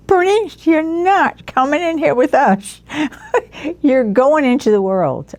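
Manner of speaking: high voice broken up by laughter; nun laughing hard as she gently refuses. Retold or imitated. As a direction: speak through a laugh, high and bubbling. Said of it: "hysterically laughed".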